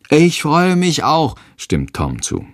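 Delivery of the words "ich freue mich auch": put-on higher and slow, eager child; little boy voice. A narrator's reading. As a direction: chime in like a small boy. Tom stimmt zu. (hohe, langsame Kinderstimme)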